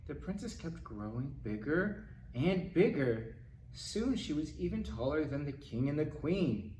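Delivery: ordinary delivery, nothing marked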